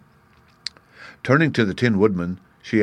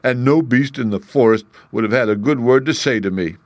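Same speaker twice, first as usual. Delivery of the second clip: lion voice; 3 semitones higher, 3 dB louder than usual. Acted. Lion continues speaking.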